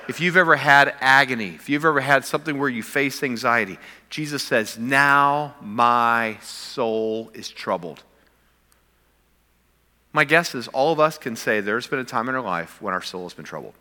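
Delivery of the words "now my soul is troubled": Jesus's words drawn out very slowly; slow anguished quote. Retold or imitated. Pastor voicing Jesus in Gethsemane, slow and heavy. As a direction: stretch each word like a man in agony.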